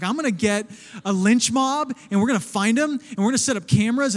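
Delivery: mock posse leader, pushing it loud; fired-up bounty hunter. Pastor playing bounty hunter after the trailer theft, fired up. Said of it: "I was like Brian the Bounty Hunter".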